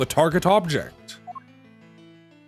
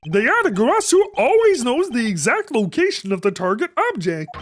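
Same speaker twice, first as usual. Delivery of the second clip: higher, distant remembered voice; flashback voice; 6 semitones higher than usual. Acted. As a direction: speak it like a memory. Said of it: "This is the flashback voice".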